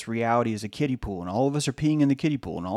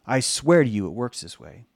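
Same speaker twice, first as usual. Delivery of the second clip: ordinary talk, nothing marked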